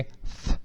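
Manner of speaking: TH as a pure voiceless puff; blown TH. Shown as a demonstration. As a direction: blow TH softly through tongue and teeth. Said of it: "como se você desse um sopro". (th só sopro, sem voz)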